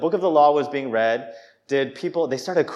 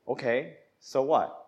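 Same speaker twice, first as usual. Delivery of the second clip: indifferent, softer shrug of a reply; mock couldn't-care-less; acted apathy; 6 dB quieter than usual. Congregant answering God's word, acted apathy. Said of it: "is apathy".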